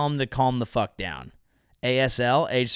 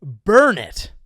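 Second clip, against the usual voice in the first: slow, louder horrified "what", then burn it; appalled outburst; 6 dB louder, much slower than usual. Retold or imitated. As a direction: recoil at your old posts. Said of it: "And I go".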